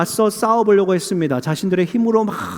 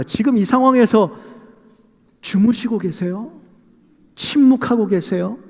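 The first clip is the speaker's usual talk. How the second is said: confronting; 3 semitones higher than usual. Acted. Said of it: "그렇게 따집니다".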